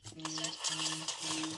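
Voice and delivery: deep slow voice. Pretend. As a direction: drop it way down and drag it out. Repeats it in a put-on voice.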